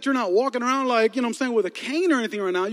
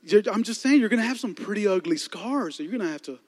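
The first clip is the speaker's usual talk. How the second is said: softer, faltering mock excuses; stuttering excuse; 4 dB quieter than usual. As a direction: fumble for words, trailing off. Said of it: "he starts stuttering".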